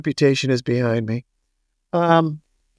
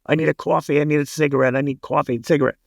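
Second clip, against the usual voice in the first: put-on New York accent; 3 dB quieter, faster than usual. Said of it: "Billy Foster talked like this".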